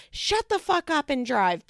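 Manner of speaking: high-pitched acted snap at a friend; retold flip-out. Rachel flipping out at her friend in the car, angry retold outburst. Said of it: "flips out at her friend".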